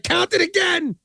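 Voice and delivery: high-pitched mock shout; acted shouted order. Retelling the money-counting scene, high mock shout. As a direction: fire it out as a high, outraged movie order. Acts out film character ordering recount.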